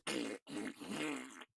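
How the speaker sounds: throaty crackle sound; mock garbled phone noise; imitated phone distortion. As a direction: mimic an overloaded phone line. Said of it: "before it just goes".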